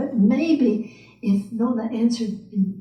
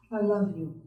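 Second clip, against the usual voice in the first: softer inner affirmation; said mentally; 2 semitones lower, 6 dB quieter, faster than usual. Acted. Nona silently affirming love to Mrs Mack, soft. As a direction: quietly tell herself I love you. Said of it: "she said mentally to herself".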